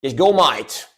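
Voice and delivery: playful put-on Aussie accent; imitated Australian accent. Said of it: "I try to imitate a lot".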